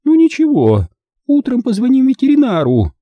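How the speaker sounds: high, loud, breezy aunt; dismissive. A narrator's reading. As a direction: brush off the worry in a high voice. Aunt dismissing the boy's worry.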